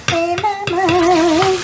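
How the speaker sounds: shaky voice. Real, not acted. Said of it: "why the shaky voice".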